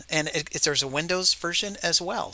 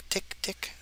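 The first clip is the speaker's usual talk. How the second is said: clock ticking; 10 dB quieter than usual. Retold or imitated. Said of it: "it's like tick".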